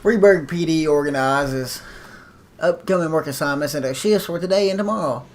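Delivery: measured tutorial narrator voice; instructor voice. Shown as a demonstration. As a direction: read it like a training instructor. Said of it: "That's my, uh, instructor voice".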